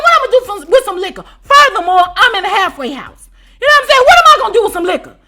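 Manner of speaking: high, loud, laughing disbelief; laughing rant. Real, not acted. To the audience about the liquor, laughing. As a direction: laugh through the outrage.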